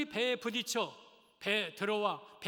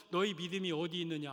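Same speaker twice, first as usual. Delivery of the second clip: lower, grave reproach; low rebuke; 5 semitones lower than usual. Acted. Jesus reproaching his disciples, low grave rebuke. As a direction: scold them gently but firmly, low. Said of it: "하고 책망한 거예요".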